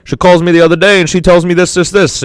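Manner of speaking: lightly voiced hard-luck comedian; sad-sack comic voice. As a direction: grumble it like a comic who gets no respect. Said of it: "And then he'll be like".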